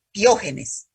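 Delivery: "piógenes" with the accent on the O; teacher's correction, stressed O in "piógenes". Shown as a demonstration. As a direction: model "piógenes" for a student, stressing the O. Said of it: "Acento en la, en la O".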